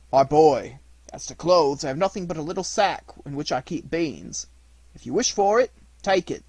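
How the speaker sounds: put-on loud, hearty old man voice; old man offering. A narrator's reading.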